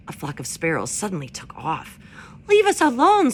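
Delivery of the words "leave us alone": much higher, louder squeak; squeaking weasel. A narrator's reading. Frightened weasel squeaking at the robot, much higher. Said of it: "squeaked Dart".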